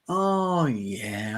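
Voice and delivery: imitated dawning recall. Film fan voices a viewer remembering the previous film, dawning recall. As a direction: act out it slowly coming back. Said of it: "and you think".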